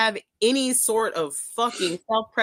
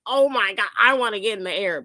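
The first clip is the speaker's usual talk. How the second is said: mocking whine; 2 semitones higher than usual. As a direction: rattle it off like a spoiled flyer. Mocking an impatient passenger.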